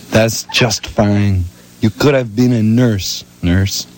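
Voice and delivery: slow, lightly put-on Japanese accent; a hint of mock Japanese accent, drawn out; terrible Japanese accent. Elena soothing Cora in a bad Japanese accent. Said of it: "this character is Japanese".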